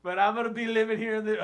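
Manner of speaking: mock country hipster; hipster country guy. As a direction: play a hipster gone country. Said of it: "He's a hipster country guy".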